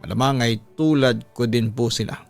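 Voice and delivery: usual speaking voice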